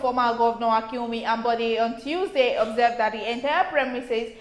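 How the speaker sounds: even, measured newsreader delivery; news read. Acted. Co-host reading a report on the theatre, news read.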